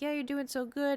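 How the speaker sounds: high cooing encouragement; imitated soothing vet. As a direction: echo the coo in a high, sing-song voice. Vet echoes the soothing coo.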